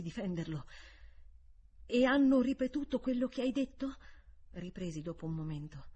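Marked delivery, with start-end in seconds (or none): 1.9-4.0 raised, pressing question; questioning governess. A narrator's reading. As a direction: press the child with a higher, louder question. Governess questions the boy, dialogue.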